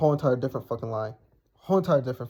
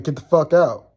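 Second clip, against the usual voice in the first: louder, firmer order to leave; repeated order; 5 dB louder than usual. Retold or imitated. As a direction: retell an insistent dismissal, louder. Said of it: "So he says again".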